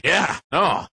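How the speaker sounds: lightly voiced dim casual player; put-on player voice. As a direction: imitate a clueless player answering. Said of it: "You gotta use that voice more often".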